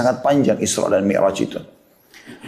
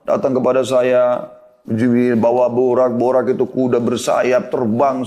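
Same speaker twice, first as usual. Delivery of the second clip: slow, drawn-out storytelling; guileless recounting; slower than usual. Retold or imitated. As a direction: lightly act an innocent, unhurried account. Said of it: "dengan polos ceritain semua".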